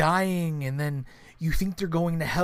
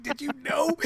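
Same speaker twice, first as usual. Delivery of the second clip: mock accusing; 10 semitones higher than usual. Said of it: "It's like".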